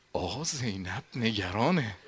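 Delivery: whisper. Acted. Habib telling the companions in secret, whispered. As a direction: breathe it as a secret.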